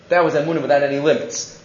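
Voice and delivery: quietly restating the point for emphasis. Shown as a demonstration. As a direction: say it again under the breath, quickly. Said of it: "Because that was emuna without any limits".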